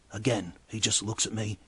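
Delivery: normal talking voice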